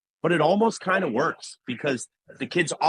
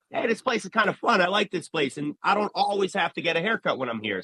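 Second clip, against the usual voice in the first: lightly voiced kid, pitched up; imitated child client; 6 semitones higher than usual. Barber voicing a child warming to the shop, imitated kid. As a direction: lift the voice lightly into a kid's realization. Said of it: "and they realize".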